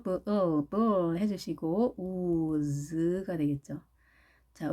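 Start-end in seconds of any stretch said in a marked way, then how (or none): 0.0-1.2 브, 어, 브 drawn out as B plus held L; L sound. Shown as a demonstration. Teacher breaking down blues, slow B-L. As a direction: say 브, 어, 브 slowly, ending on L. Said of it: "마찬가지로 L이 들어있네요".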